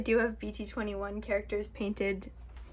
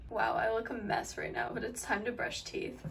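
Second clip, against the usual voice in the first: lisping; 4 dB quieter than usual. Real, not acted. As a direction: lisp from retainers in mouth. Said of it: "I'm lisping right now 'cause I have my retainers in".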